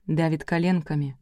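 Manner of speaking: ordinary delivery, nothing marked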